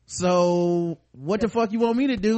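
ranting in exaggerated exasperation; mock exasperated rant. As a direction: play up a fed-up outburst. Acting out a heated argument.

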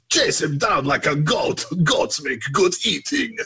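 a hint of a gruff enemy soldier; game German soldier. Quoting a game's German soldiers to a friend, lightly voiced. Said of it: "the Germans always made me laugh".

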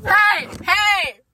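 loud high protest; indignant shout. Real, not acted. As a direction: yell back in mock offense. Friend called stinky, protests.

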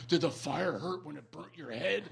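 softly imitated child asking; quiet, lightly voiced kid's question; son's question. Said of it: "my son, like, takes a pause".

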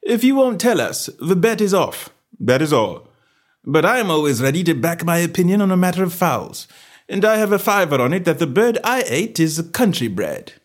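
high, confident gentleman's voice; detective laying bait. Acted. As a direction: wager as if sure of yourself. Holmes baits the salesman.

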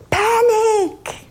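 high laughing mock cry of panic; screaming brain. The emotional brain yelling at the sufferer, high laughing mock alarm. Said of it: "will be screaming at you".

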